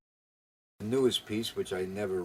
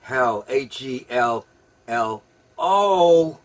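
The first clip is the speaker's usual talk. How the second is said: 1 spelled out slowly; 2 semitones higher, 9 dB louder, much slower than usual. Shown as a demonstration. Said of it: "spelling it out".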